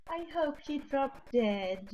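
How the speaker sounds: slow, sweetly polite curse; measured and mild, slightly lifted; calm, polite malice. Acted. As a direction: say it gently, as if a courtesy. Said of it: "in the same tone of voice says".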